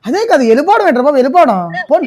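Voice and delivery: mock upset. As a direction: play the hurt husband in the prank. Acted quarrel in prank. (నటిస్తూ గట్టిగా ఫిర్యాదు)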